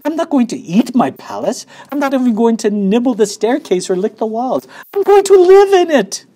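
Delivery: high, loud protest building to a yell; indignant shouting. A narrator's reading. Prince refusing to eat his chocolate palace, shouting indignantly. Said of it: "shouted the prince".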